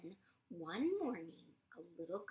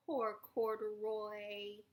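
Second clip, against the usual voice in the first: slow, pitying poor Corduroy; sympathetic; 4 dB louder, slower than usual. Shown as a demonstration. Reader showing the child how to say it, slow and pitying. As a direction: say it slowly with pity. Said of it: "You say".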